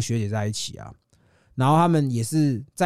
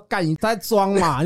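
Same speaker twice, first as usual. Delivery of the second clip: 1 slow scoffing; 3 semitones higher, slower than usual. Retold or imitated. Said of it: "大家后来开始觉得说".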